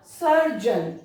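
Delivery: सर्जन ending in a short jun. Shown as a demonstration. Teacher modelling surgeon for students. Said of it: "जन pronounce करते हैं".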